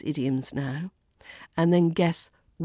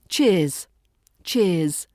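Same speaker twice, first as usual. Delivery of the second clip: casual, friendly, snappy word; short and snappy. Shown as a demonstration. Teacher shows a goodbye like at the pub, short and snappy. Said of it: "Short and snappy, casual and friendly".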